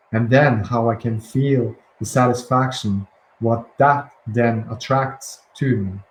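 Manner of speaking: slow, deliberate reading so every word lands; read slowly. Shown as a demonstration. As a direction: take each word slowly for the listener. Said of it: "slowly so you can hear those words".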